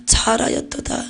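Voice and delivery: soft unvoiced praise; a whispered first take of the blessing; hushed voice of Jesus. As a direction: say it breathily as a tender blessing. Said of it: "우레와 같기도 했어요".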